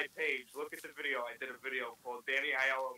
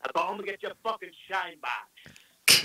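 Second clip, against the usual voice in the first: Billy Bats impression; 5 dB louder than usual. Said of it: "Can you do a Bats?".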